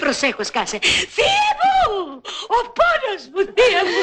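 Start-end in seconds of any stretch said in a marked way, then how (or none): 1.2-4.0 mock wailing. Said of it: "Μην κλαις πολύ".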